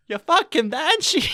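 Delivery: high, loud mock Scottish accent. Host quoting the abridged anime character, loud Scottish accent. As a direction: draw it out in a hammed-up Scottish accent. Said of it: "like, a Scottish accent".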